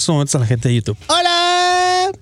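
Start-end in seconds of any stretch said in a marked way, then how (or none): 1.1-2.1 big hello. Real, not acted. Greeting YouTube viewers.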